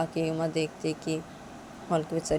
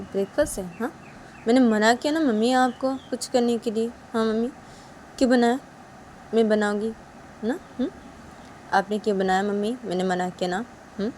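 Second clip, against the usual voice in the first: raised, nagging scold; daughter-in-law scolding her mother-in-law; Uma scolding; 5 semitones higher than usual. Acted.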